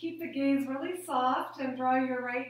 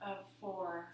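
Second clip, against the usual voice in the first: lower, much softer count; soft exhale count; 5 semitones lower, 10 dB quieter than usual. Shown as a demonstration. Yoga teacher counting the class's exhalation, soft and low. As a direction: let the voice sink with the breath out.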